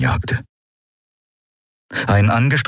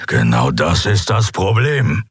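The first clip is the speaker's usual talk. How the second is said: dark growl. A narrator's reading. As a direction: growl it out grudgingly. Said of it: "Sein Knurren war düster, widerwillig". (düsteres, widerwilliges Knurren)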